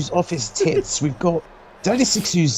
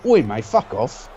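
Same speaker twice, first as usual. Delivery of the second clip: a lightly put-on British accent, a bit lower; 6 semitones lower than usual. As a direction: toss it off like a mock British bloke. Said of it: "really British all of a sudden".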